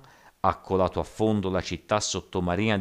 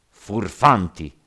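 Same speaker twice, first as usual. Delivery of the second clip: loud, drawn-out angry cry; shouted rebuke; 4 semitones higher, 10 dB louder, much slower than usual. A narrator's reading. Zhao rebuking the rioters below, shouting. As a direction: shout the insult down at them. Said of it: "gridò Zhao".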